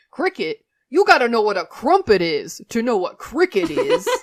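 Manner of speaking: put-on loud, belted, swooping Brooklyn accent. Retelling a favorite cartoon scene, quoting Raph's reply in a fight: Raph's Brooklyn accent. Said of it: "That's my Brooklyn accent".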